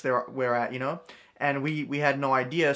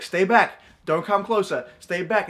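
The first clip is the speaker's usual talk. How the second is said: retold warning; 3 semitones higher, 3 dB louder than usual. Dad warns off the drunk man.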